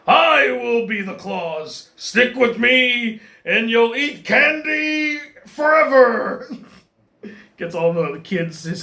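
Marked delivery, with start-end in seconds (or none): 0.1-6.5 slow, lightly voiced scheming villain; Scar-style villain. Son recruiting the kids as hyenas, mild slow villain voice. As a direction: slowly tempt the kids with a hint of a lion villain. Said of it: "Like Scar from The Lion King".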